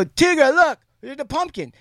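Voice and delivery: put-on high, eager call to a child; retold coaxing parent. Dad showing daughter the pumpkin, high and coaxing.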